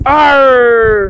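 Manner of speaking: pirate voice. Pretend. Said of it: "Best pirate voice".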